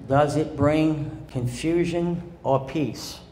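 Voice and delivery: Does it bring confusion or peace drawn out slowly; slow deliberate repetition of the question; slow, weighty repeat. Shown as a demonstration. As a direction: lay the question down slowly for emphasis. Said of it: "The third thing is this".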